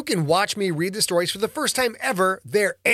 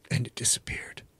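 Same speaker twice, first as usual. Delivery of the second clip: ominous whisper; 4 semitones lower, 8 dB quieter than usual. A narrator's reading. Ominous end of attack.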